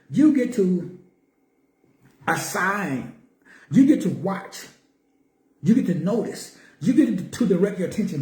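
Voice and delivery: you hit firmly at each line start; stress on you. Shown as a demonstration. Teacher demonstrating the stressed word you to listeners, stress on you. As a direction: lean on every you, teaching. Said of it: "notice the emphasis on the word you".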